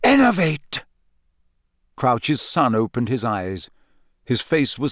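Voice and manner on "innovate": commanding spell, called out high; spell incantation. Acted. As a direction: cast the spell with force. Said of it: "pointed his wand ... and said".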